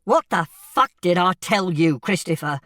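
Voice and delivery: loud angry demand. A narrator's reading. Father demands an answer from his son, loud and angry. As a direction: raise your voice hard at the boy. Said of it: "This was much louder".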